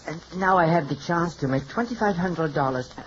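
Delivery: put-on French hairdresser accent; phony French accent. Hairdresser apologizing to his client, phony French accent. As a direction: speak with a fake French accent. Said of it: "without the phony French accent".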